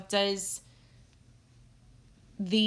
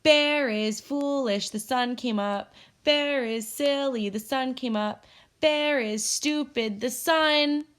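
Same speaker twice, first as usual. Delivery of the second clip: mock the bear in a childish singsong; teasing; 4 semitones higher than usual. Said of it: "began to tease Bear".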